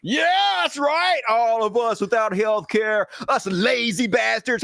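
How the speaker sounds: drip sarcasm, parroting the senator; bitter mocking shout at "us lazy bastards"; sarcastic mock agreement. Real, not acted. Mocks the senator's claim sarcastically.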